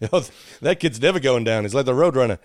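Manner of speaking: light smart-aleck Skinner voice; a hint of a cocky wise guy. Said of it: "I gave Skinner the wise guy voice".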